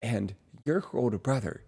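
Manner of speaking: friendly quoted chatter; imitating a friend. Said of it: "she was like".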